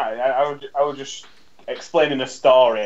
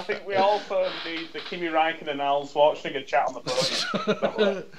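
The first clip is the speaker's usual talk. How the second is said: laughing; 4 semitones higher, 3 dB quieter than usual. Real, not acted. Laughing about podium chat.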